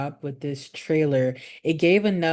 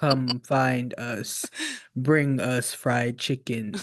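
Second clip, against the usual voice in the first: robotic voice; 4 semitones lower, much slower than usual. Retold or imitated. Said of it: "talks in that weird robotic voice".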